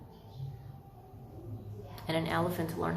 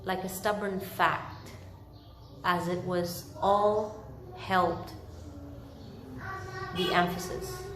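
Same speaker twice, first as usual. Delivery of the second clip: story narration. A narrator's reading. Reads Dickens chapter aloud.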